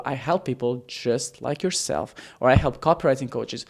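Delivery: slow, drawn-out, every word clear; slow and enunciated. Shown as a demonstration. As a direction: stretch each word out. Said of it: "I'm enunciating that and elongating the sentence".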